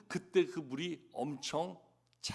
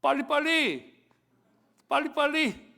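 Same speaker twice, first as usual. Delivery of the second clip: high, loud, punchy mock urging; imitating hurried Korean; 8 semitones higher, 6 dB louder than usual. The first Korean foreigners learn, mimicked loud and high. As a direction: call it out like someone rushing everyone. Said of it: "더 먼저 배우는 말이 있대요".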